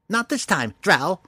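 high sprite voice, sly and breathy; a tiny sprite hissing a threat; twinkling breathy fairy whisper. A narrator's reading. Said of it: "the sprite whispered suddenly".

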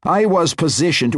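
carried away by his own glory; fervent boast. A narrator's reading. Wizard boasting of his house to the matron, fervent.

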